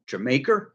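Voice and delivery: "Jamaica" run together as "Jer-maker", rising question; imitated Cockney pronunciation. Vlogger repeats what the man asked, imitated Cockney pronunciation. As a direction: say "Jamaica" like a questioning "d'you make her". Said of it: "that's how they say it".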